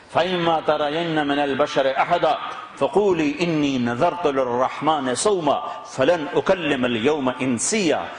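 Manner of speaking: brisk melodic tilawat of the verse; Quran recitation. Acted. Preacher reciting the verse to the congregation, melodic. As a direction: recite the verse in flowing Arabic cadence.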